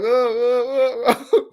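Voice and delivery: high whooping oh oh, imitating the player; hammed-up celebrating yelps; mock celebration cry. Imitating a player celebrating a touchdown, high whoops. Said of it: "He's like".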